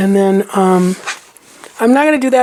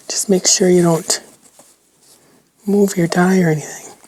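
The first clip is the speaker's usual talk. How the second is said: whispering; 2 semitones lower than usual. Real, not acted. Quietly reminding while crafting.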